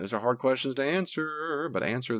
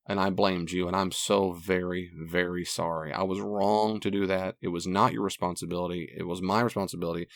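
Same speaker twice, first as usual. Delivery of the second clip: softer, lower, rehearsed heartfelt apology; sincere apology; 3 semitones lower, 4 dB quieter than usual. Pretend. Husband showing listeners how to confess to a spouse, softly apologetic. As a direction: model a gentle confession of fault.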